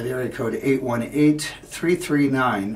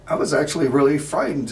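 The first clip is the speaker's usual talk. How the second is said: quick, louder, nervous admission; agitated fear; 3 semitones higher, 6 dB louder, faster than usual. Acted. Man admitting to Irene he was frightened, agitated. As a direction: rush it out, worked up. Acted retelling of his fear.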